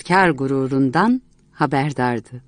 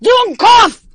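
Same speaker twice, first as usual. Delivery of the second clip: much higher and louder German insult; furious yell; 8 dB louder than usual. Acted. Enraged painter screaming at Miss Martha, furious shout. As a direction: hurl the word at her like a blow. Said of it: "Bar bar bağırarak ... diye haykırdı".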